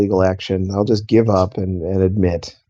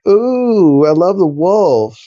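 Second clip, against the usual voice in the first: mock thrilled crowd; 7 semitones higher, 5 dB louder, much slower than usual. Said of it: "then they're like".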